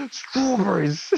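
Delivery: slow, drawn-out British "Strawberries"; British accent. Retold or imitated. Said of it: "now I know how to say that with a British accent".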